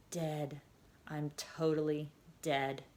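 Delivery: soft slow faint whisper. A narrator's reading. Collapsed girl whispering to herself, soft and slow. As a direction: barely breathe the words. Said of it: "All Ava could whisper was".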